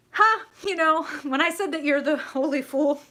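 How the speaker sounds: loud, high burst of laughter into words; cracking up at a happy coincidence; real amused laughing. Real, not acted. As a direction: talk through delighted laughter.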